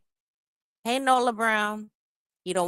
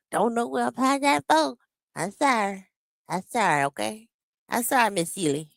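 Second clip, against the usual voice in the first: mock careless apology, higher and fast; mocking him; 3 semitones higher than usual. Mocking her man's lazy apology to her, hammed-up and quick. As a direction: rattle off a dismissive sorry.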